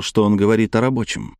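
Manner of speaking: usual speaking voice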